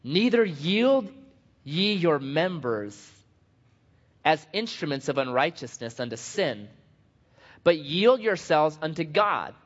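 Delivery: slow, measured Bible reading; scripture reading. Acted. Pastor reading Romans to congregation, measured scripture reading. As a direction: read the verse out deliberately, phrase by phrase.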